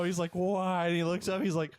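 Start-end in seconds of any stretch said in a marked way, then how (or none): 0.3-0.9 high, loud imitated wail; exaggerated plaintive cry; mock crying. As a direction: wail it like a hammed-up crybaby. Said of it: "he starts crying".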